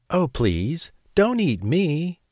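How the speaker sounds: high pleading goat, slowing at the end; frightened plea. A narrator's reading. Medium-sized goat begs the troll for mercy, frightened. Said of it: "he cried".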